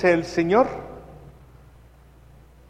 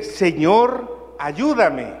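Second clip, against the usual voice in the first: pleading cry; much slower than usual. Shown as a demonstration. Woman cries to Jesus, pleading. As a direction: beg like a desperate mother. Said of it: "Y le dice".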